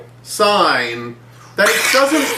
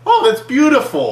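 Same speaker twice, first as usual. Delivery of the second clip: awed quote; 8 semitones higher, 3 dB louder than usual. Retold or imitated. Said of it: "And he's like".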